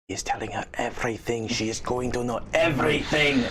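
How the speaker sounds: hint of a sinister inner voice, slowing as it goes; whispering symbiote. Symbiote warning its host inside their head, lightly voiced whispering creature. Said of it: "begin to whisper out".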